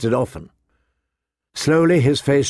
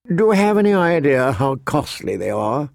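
complaining; 2 semitones higher than usual. Acted. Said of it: "Littlefinger complained".

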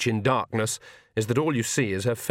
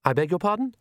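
higher, halting, embarrassed voice; wretched; 5 semitones higher than usual. A narrator's reading. Agnes explains herself to Oates, mildly wretched. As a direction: falter with a touch of misery. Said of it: "said Agnes wretchedly".

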